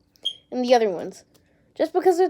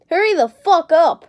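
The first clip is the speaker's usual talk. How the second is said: higher, louder hurry the fuck up; mock angry demand; 6 semitones higher, 7 dB louder than usual. Telling someone to hurry, a loud mock snap. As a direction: bark it out like an impatient boss. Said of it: "So I'll say it again in English".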